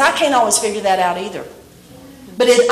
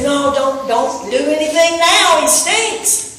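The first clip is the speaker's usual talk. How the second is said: rising, higher, ending in a laugh; fussy Martha; 4 semitones higher than usual. Retold or imitated. Martha fretting that her brother stinks, comic and rising. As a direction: play the worried sister for laughs.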